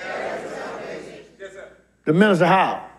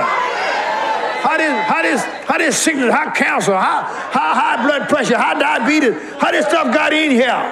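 building preacher shout, pitch climbing; rising indignant cry; 3 semitones higher, slower than usual. Real, not acted. Preacher rails at disease before the church, building shout. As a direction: hurl the list at the sickness.

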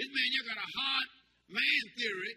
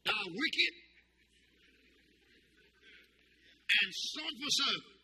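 raised, drawn-out scripture rebuke; the Lord's rebuke; 6 semitones higher, 4 dB louder, slower than usual. Retold or imitated. The Lord answering the lazy servant, stern rebuke. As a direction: stretch out the reproach with force. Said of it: "The Lord answered them".

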